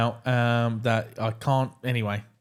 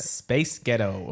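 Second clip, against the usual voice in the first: put-on slow "Space Ghetto" for a pop group's name; Scottish "Space Ghetto"; Scottish accent demo; 2 semitones lower, much slower than usual. Shown as a demonstration. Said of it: "if you say".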